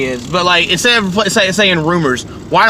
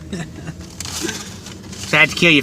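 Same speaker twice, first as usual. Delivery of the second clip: slow, whispered fake threat; mock-menacing whisper; 6 dB quieter, much slower than usual. Teasing listeners about the unnamed co-host, slow mock-menacing whisper. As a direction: breathe it like a movie villain. Joking about co-host's name.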